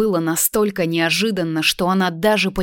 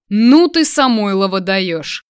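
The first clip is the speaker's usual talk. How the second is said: stunned; 6 dB louder, slower than usual. A narrator's reading. Man amazed at his former classmate, stunned. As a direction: blurt it out in astonishment. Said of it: "ошеломлённо произнёс тот".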